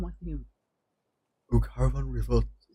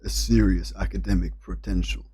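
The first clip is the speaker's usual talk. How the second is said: American accent try. Shown as a demonstration. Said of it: "how to say this in an American accent".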